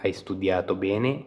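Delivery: slow, careful Italian model line; slow model phrase. Shown as a demonstration. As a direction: spell it out slowly for learners. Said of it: "bene हो गया अच्छे से".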